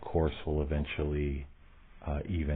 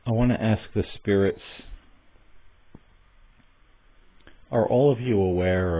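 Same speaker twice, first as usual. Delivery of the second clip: raised voice, calling out to unseen spirits; calling out loud; 5 semitones higher, 6 dB louder than usual. Real, not acted. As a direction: project the question loudly into the room.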